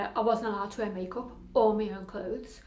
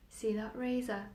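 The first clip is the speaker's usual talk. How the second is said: insinuating inner voice; 5 dB quieter than usual. Acted. Voices in her head point out razor.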